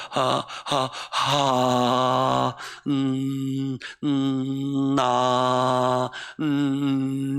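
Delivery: broken drawn-out syllables struggling to form 하나님; halting strained speech. Shown as a demonstration. Pastor imitating a poet with cerebral palsy forcing out 하나님 sound by sound. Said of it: "이렇게 해야 돼요".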